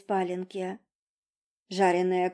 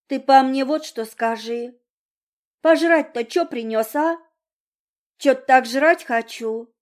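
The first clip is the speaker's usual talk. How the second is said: brash demand; 5 semitones higher, 7 dB louder than usual. Acted. Girl demanding food, brash.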